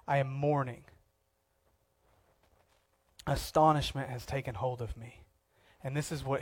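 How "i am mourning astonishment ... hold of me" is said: mournful lament. Retold or imitated. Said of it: "he cries out".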